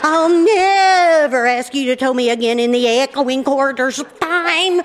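quivering, drawn-out hammed-up wail; mock hysterical. Wife mimics furious husband after tow, mock hysterical. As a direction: imitate a hysterical man swearing a dramatic vow. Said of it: "he quivers when he gets mad".

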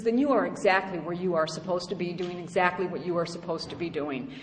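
understated caring sponsor voice; loving voice. Retold or imitated. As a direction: calmly set her straight. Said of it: "in her very, very loving voice".

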